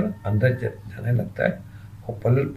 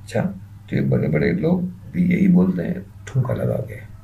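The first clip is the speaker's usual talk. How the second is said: more mischievous; 3 semitones lower than usual. Acted. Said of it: "तो मुखी और शरारत से कहती है".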